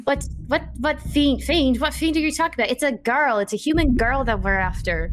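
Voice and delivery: high-pitched, confused protest; baffled Doros. Acted. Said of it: "Doris was just speaking up and being like".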